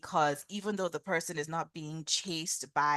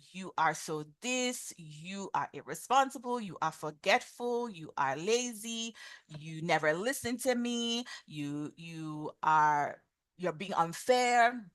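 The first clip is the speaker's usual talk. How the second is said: measured, drawn-out mock accusations; blaming. Shown as a demonstration. Parent or boss criticizing someone's character, acted blaming. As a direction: list faults with deliberate reproach. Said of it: "Whenever you use blaming statements".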